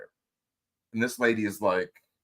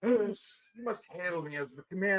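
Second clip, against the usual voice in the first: pompous tyrant; 9 semitones higher, 4 dB quieter than usual. Pretend. Mock tyrant owner.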